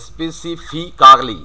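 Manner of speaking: "specifically" drawn out syllable by syllable, spe-si-FEE-KAA-lee; "specifically" slow, every written syllable sounded; local "specifically". Shown as a demonstration. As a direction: slowly spell out "specifically" with a long "kaa". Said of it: "আমরা কিন্তু এটাই বলে থাকি".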